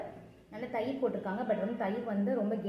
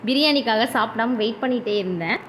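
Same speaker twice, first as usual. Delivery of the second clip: talking with mouth full; speaking between bites; chewing food while talking; 11 dB louder than usual. Real, not acted. Seen 0: Eats throughout, cheeks working, bites egg held at mouth 4.8-5.9.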